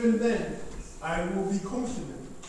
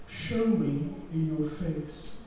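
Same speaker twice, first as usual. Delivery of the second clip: tender call; 2 semitones lower, 4 dB quieter, much slower than usual. Acted. Lord calling, very slow and soft.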